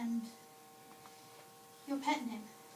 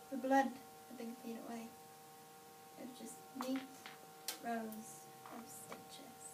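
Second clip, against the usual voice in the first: whispering; 2 semitones lower, 6 dB quieter than usual. Real, not acted. Hushed reveal in the mirror.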